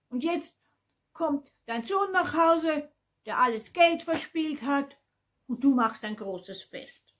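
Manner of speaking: high, loud bitter reproach; indignant son. A narrator's reading. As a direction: throw the accusation at father, outraged. Angry son reproaches his father. (empört und vorwurfsvoll)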